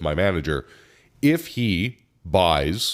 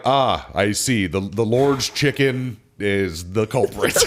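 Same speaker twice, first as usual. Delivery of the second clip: laughing wry reply; 2 semitones higher, slower than usual. Retold or imitated. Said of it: "I'm like".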